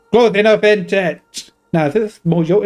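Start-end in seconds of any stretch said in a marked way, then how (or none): 0.1-1.5 Scottish attempt sliding into angry Yorkshireman; failed Scottish accent. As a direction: attempt Scottish but land in Yorkshire, rising higher at the end. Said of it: "that's just an angry Yorkshireman".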